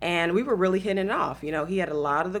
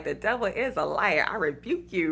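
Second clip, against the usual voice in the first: mock rebuke, laughing. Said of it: "and you like".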